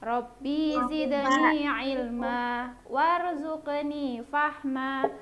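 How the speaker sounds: slow measured Quran recitation. Acted. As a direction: recite slowly in a chant. Teacher recites prayer for class.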